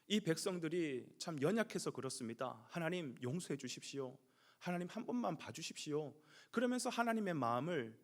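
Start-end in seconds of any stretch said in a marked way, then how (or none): 0.1-6.1 soft, lowered plea on someone's behalf; placating plea. Acted. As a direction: plead gently with God for the people. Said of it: "오히려 하나님을 달래죠". (달래듯 낮고 부드럽게 간청)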